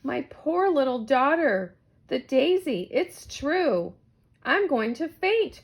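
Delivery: near fainting with worry; distressed mother. Acted. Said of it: "cried Missus McGrew".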